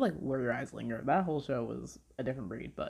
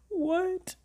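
stunned what. Retold or imitated. Stunned reaction retold after sobbing.

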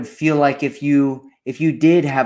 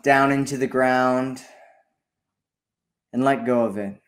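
unhurried guided meditation with long pauses. Acted. Host guiding listeners to breathe in healing energy, calm meditation delivery. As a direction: guide listeners through breathing, leaving space between phrases.

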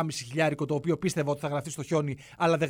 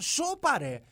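mock astonishment; 7 semitones higher, much slower than usual. Real, not acted. Mocking disbelief at tips.

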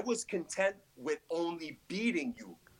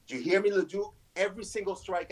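shouting; 6 semitones higher, 5 dB louder than usual. Acted. Wrestling promo threat at rival.

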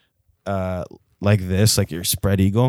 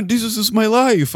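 exasperated jail guy; 14 semitones higher, 6 dB louder than usual. Retold or imitated. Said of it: "He's like".

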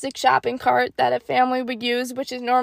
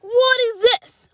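baffled; 10 semitones higher, slower than usual. Retold or imitated. Can't find the sausage.

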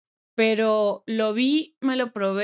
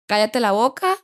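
mock shush; 8 dB louder than usual. Cutting herself off mid-quote.

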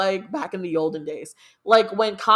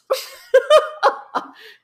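sudden high squealing laugh; high burst of laughter; 8 dB louder than usual. Real, not acted. Reacting to her own "the England", a high squealing laugh.

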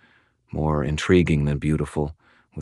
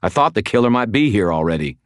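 raised, exasperated voice; higher, heated retort; hollered; 5 semitones higher, 4 dB louder than usual. Acted. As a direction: keep hollering your excuse. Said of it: "I hollered".

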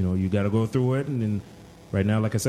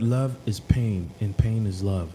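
slow, lightly voiced Alex quote; drawn-out mock wisdom; Alex impression. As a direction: deliver it slowly like a wise quote man. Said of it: "impression of Alex".

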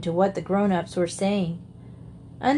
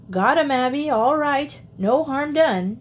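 shouting; 5 semitones higher than usual. Acted. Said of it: "shouted Uncle Henry".

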